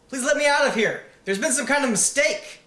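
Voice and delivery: high, loud urgent plea; the prisoner begs loudly, high-pitched; pleading. Acted. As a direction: beg the guard to let you out. Begging guard to release him.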